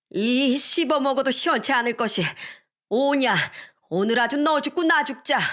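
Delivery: put-on an old woman at the end of her rope; enraged grandma. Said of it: "분노를 이기지 못한 외할머니가". (분노를 못 이긴 외할머니의 악에 받친 외침)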